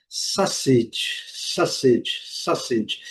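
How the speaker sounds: sausage said SOSS-itch, U silent; correct pronunciation. Shown as a demonstration. Teacher drills the hot-dog word for travellers, correct pronunciation. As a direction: say sausage with a short i ending. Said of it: "a pronúncia correta é".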